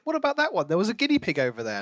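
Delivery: high eager voice pointing at a guinea pig; excited retelling. Retold or imitated. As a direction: mimic characters spotting something, quick. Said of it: "there was like".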